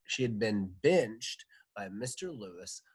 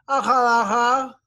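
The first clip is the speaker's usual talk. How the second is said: mouth wide open; 17 dB louder than usual. Acted. Patient answering with mouth open.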